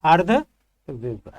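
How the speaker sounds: अर्धविवृत drawn out slowly syllable by syllable; slow model word. Shown as a demonstration. Teacher models अर्धविवृत slowly for students. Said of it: "वो होता है अर्धविव्रत".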